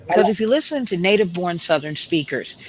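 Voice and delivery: slow, drawn-out Southern drawl; Southern drawl demo. Shown as a demonstration. Clip creator showing off the Southern drawl. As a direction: stretch it like a Moonlight Magnolia drawl. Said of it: "sound more like this".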